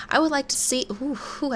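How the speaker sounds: out of breath. Real, not acted. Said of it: "I don't know why I'm out of breath".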